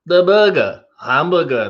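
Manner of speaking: mangled mock-French accent; Steve Martin's Clouseau. Quoting the Pink Panther movie, mock-French accent. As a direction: struggle to pronounce it in comic French. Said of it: "Pink Panther with Steve Martin".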